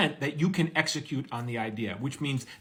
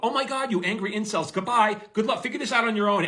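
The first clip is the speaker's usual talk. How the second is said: mock dismissive farewell; 6 semitones higher, 3 dB louder than usual.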